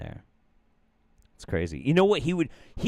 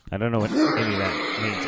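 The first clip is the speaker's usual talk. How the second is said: normal talking voice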